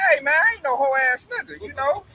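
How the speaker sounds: indignant protest building to a high, loud finish; offended, rising into a loud outburst; retold offense. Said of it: "So I'm getting offended".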